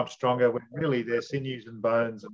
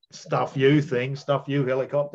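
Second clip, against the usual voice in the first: mock defiance; 3 dB louder than usual. Acts out defiant surge of strength.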